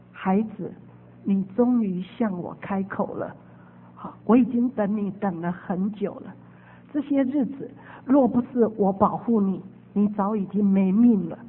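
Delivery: gentle voice of Jesus. Retold or imitated. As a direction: speak like a patient loving father. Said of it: "就说". (温柔低沉的耶稣口吻)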